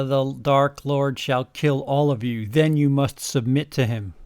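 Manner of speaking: menacing. Acted. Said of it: "Snape ejaculated menacingly".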